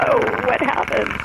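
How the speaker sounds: high, startled mock dismay; mock surprise. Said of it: "I'm like".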